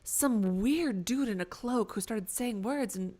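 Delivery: slow, halting reindeer storytelling; lightly voiced confused reindeer. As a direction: recount the odd events slowly as a bewildered reindeer. Plays transformed reindeer telling its tale.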